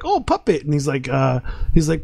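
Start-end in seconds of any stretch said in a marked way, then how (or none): 0.0-0.6 put-on high little-kid voice for the son; squeaky toddler voice, much higher; imitating little son. Dad imitating his son watching Goosebumps, high kid voice.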